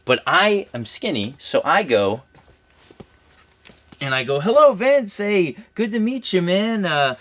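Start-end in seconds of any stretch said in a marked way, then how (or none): 4.4-6.9 high, bright, overeager hello; eager greeting. Retold or imitated. Skinny extra greets Vince McMahon, pitched up and eager. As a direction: greet him like an excited kid.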